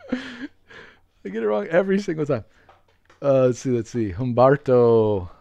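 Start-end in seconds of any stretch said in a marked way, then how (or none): 0.1-2.5 mock whine. Real, not acted. Moaning about his mistake.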